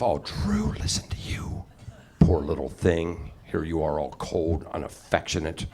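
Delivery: lightly voiced aloof English mother; a hint of a cold, condescending mum; mother's voice. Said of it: "I sound exactly like my mom".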